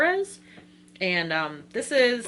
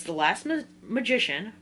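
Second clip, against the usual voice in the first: tongue-tied stumble. Real, not acted. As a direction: trip over Magician, break it off and restart it. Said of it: "can't talk today".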